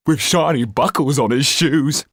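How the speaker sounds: sly rat-like thug voice; leering. Acted. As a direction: leer at the rich victim. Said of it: "leered the rat-like creature".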